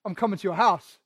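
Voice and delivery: casual, throwaway line; offhand. Shown as a demonstration. A shallow version of Jesus' words, said casually. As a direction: toss it off like it means nothing. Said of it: "wasn't just like".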